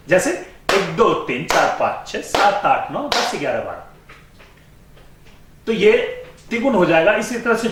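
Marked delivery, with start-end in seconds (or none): 0.7-3.8 triple-speed counting. Shown as a demonstration. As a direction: rattle the count off three to a beat. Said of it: "तो वो तिगुन लय हो जाएगा।". (तिगुन लय में गिनती)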